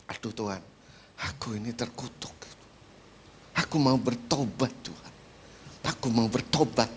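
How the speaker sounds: low, hushed plea with pauses; penitent prayer. Retold or imitated. Convicted believer tells God he will repent, low and subdued. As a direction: confess it softly to God, in retelling.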